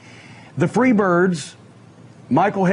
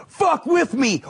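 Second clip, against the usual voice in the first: higher shouted threat with each swing; 7 semitones higher, slower than usual. Retold or imitated. Doctor Death beating Garvin with a chair, shouted threat. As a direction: bark it while swinging a chair. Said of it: "Doc threatening Garvin".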